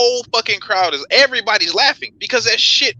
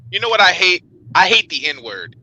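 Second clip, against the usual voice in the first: imitating Louis C K. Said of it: "he says it just like this".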